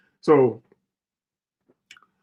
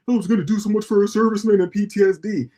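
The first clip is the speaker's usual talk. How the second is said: mock contractor voice; 5 semitones higher than usual. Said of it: "talking about".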